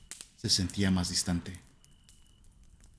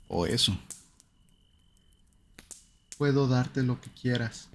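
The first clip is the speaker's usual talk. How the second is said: higher, slow, hollow coaxing voice of something not human; hollow, almost sweet inhuman voice; 4 semitones higher, slower than usual. A narrator's reading. Creature mimicking the wife tempts the husband, slow and hollow-sweet. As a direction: lure him in, sweetly, with nothing alive behind it. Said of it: "Su tono era casi dulce ... no era humano".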